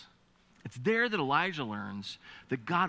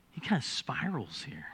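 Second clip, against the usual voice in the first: hushed, breathy whisper; 4 dB quieter than usual. Real, not acted. Preacher to congregation about Elijah spiraling, whispered. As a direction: drop to a whisper as if sharing a secret.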